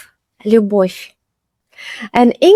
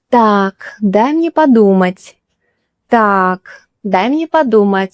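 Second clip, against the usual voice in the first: thinking it over. Shown as a demonstration. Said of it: "like you want to think about something".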